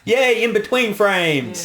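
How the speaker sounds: high, drawn-out playful cheer; mock cheer. Real, not acted. To cohost, cheering at a clear frame, drawn-out and high. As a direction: celebrate it like a tiny win.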